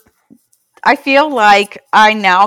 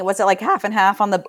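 voice cracking; faster than usual. Real, not acted. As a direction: voice cracks mid-question. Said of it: "ooh, my voice just cracked".

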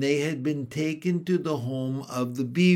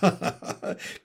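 hearty beaver laugh; 3 dB quieter than usual. Acted. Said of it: "with a great laugh".

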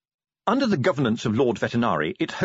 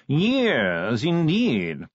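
posh yawning voice; 3 semitones higher, much slower than usual. Acted. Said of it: "modulated yawning".

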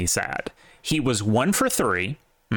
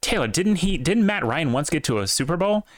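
lightly voiced doubter, pitched up; imagined questioner; 6 semitones higher than usual. Host voicing a listener's objection, imagined questioner. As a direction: ask it higher, as a puzzled listener might. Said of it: "you might be going".

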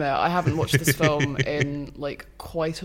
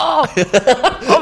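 high, laughing squeaky rat voice; 11 semitones higher, 11 dB louder, much slower than usual. Pretend. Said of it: "a little rat pointing at it going".

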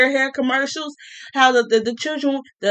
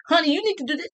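higher, patronizing instruction; condescending honey; 5 semitones higher, much faster than usual. Retold or imitated. Mocking a date who condescendingly calls her honey. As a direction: talk down sweetly. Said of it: "condescendingly calling me honey".

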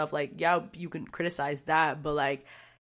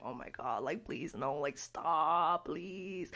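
much softer, slow, small begging voice; scared pleading; 2 semitones lower, 7 dB quieter, much slower than usual. Retold or imitated. Retelling the masked guy screaming onstage, soft scared pleading. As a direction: beg it to stop, shrinking away. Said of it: "that shit just scares me".

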